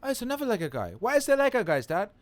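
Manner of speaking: put-on high, curious little-kid voice; imitated young son. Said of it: "He's like".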